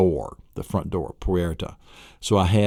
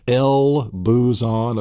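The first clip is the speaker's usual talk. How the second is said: drawn out slow mock yell; 3 semitones higher, 3 dB louder, much slower than usual. A yell at the mailbox, drawn out slow. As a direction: yell the word out slowly. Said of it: "You're yelling".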